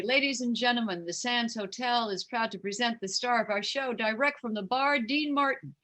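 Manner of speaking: lightly voiced stage announcer. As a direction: introduce the star with a rising showbiz build. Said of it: "hear the announcer say".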